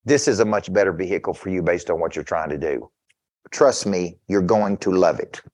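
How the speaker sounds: lightly voiced dealer talking him into it; salesman pitch. A salesman pitching the car to a hesitant buyer, lightly voiced. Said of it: "And the sales guy said to me".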